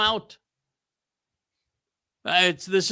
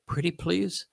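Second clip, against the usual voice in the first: sweet pleading; 6 dB quieter than usual. Shown as a demonstration. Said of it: "speak really nicely and softly".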